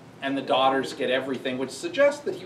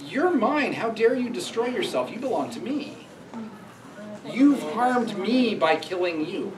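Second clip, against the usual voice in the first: mock possessive father; 7 semitones higher than usual. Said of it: "a father saying".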